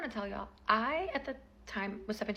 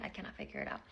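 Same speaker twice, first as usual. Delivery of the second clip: defeated mutter; 7 dB quieter, faster than usual. Real, not acted. Repeats her confusion.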